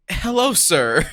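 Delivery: put-on polite greeting in Spanish accent. Teammate greeting him in the retold story, Spanish accent. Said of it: "Please talk in that accent".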